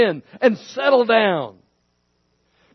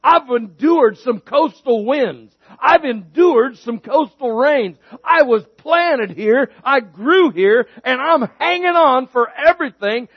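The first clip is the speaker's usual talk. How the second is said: voicing the tree; 3 semitones higher, 4 dB louder than usual. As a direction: give the tree a proud, stubborn voice that holds on. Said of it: "that tree has said".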